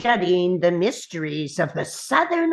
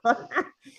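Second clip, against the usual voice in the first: soft scoffing chuckle; short chuckle; 5 dB quieter than usual. Acted. Gnome mocking the knight's fancy armor, short chuckle.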